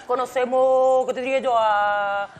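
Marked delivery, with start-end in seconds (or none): 0.1-1.1 words pulled in on the breath; talking while inhaling. Acted. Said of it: "habla pa' dentro".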